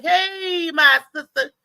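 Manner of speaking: mock-sweet brother calling out; playful loud hey my baby; sweet greeting. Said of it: "he was like".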